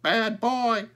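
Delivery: high, loud bird squawk; high crow voice, loud and proud; talking crow. A narrator's reading. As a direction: squawk the words like a trained crow. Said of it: "he said it".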